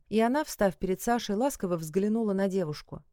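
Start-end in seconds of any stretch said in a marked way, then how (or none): none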